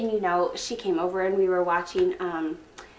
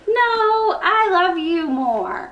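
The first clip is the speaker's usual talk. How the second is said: gushing, squealy lovey-dovey voice; giggly late night call; 2 semitones lower, 6 dB louder, slower than usual. Acted. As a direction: coo it like a smitten teen. Lovey-dovey phone call skit.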